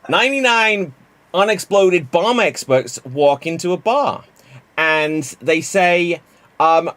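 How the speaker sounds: a loose take on a friend's storytelling voice; hint of Jimmy Mac telling a joke; Jimmy Mac impression. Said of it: "do it as Jimmy Mac".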